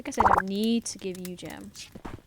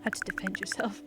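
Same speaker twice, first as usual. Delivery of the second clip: put-on forceful, amateur Scottish accent. Master of combat addressing a newcomer, in a shaky-attempt Scottish accent. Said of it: "I cannot do a Scottish accent".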